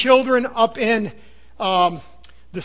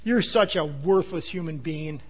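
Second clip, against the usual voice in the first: intense curse; 5 semitones lower, 6 dB quieter than usual. Retold or imitated. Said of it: "with all that intensity in your soul".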